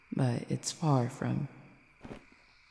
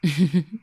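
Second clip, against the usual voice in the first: brief, louder chuckle; amused chuckle; 2 semitones higher, 7 dB louder than usual. Acted. Cupid amused before explaining telepathy, chuckle. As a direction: let out a short chuckle.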